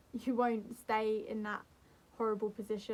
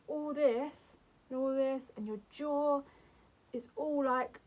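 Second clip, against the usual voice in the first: tense panicky demo; 3 semitones higher, slower than usual. Shown as a demonstration. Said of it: "you see that?".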